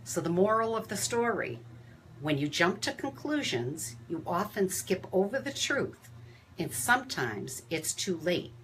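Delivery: measured rhyming poem read aloud. Acted. Host reading a poem to coworkers on a live video. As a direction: read the verse with gentle rhythm.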